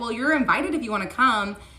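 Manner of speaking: mock lighthearted, playful, teasing and joking. Speaker retells answering a man in a DM about a trip, retelling a joking invite. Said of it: "I jokingly was like".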